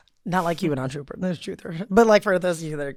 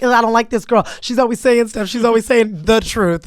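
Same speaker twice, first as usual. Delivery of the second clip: quicker-to-complain imitation of annoyed critics; mock agitated complaint; 3 semitones higher, 4 dB louder than usual. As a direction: lightly imitate someone griping about a girl. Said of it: "they get agitated by the truth".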